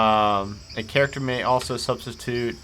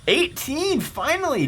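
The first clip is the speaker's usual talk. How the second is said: much higher, thrilled shout; excited cheer; 13 semitones higher than usual. Real, not acted. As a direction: celebrate the good roll. Big initiative roll.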